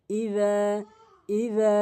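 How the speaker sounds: tongue tip to the teeth for "idha" in ইজা; light dhal. Shown as a demonstration. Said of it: "হালকা করে।".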